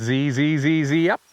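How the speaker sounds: repeated buzzy zees ending in a quick "up"; chanted bird mnemonic; birdsong imitation. Shown as a demonstration. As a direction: imitate the zipper call, flicking up at the end. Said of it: "sometimes it's".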